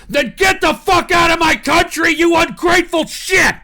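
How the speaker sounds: high, loud angry yell; angry shout. Real, not acted. Ranting at anthem protesters, shouting in fury. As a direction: yell them out of the country.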